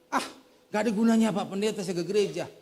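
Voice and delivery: imitating a disillusioned churchgoer, rising in pitch; disappointed complaint. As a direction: retell an exasperated grievance against God. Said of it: "Dia kayaknya kecewa sama Tuhan itu". (menirukan keluhan orang kecewa)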